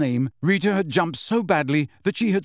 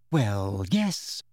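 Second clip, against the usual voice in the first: cool and unbothered; calm; 5 semitones lower, 3 dB quieter than usual. A narrator's reading. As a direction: answer simply, completely calm. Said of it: "said Hermione calmly".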